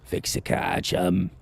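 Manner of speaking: soft, unvoiced British whisper; whispered British accent. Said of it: "Max was British like that".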